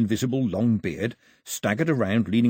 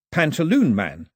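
tentative try; 5 semitones higher, 5 dB louder than usual. A narrator's reading. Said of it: "he tried".

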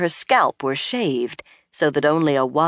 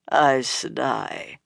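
disdainful; 4 semitones lower, much slower than usual. A narrator's reading. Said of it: "with a twist to her lips".

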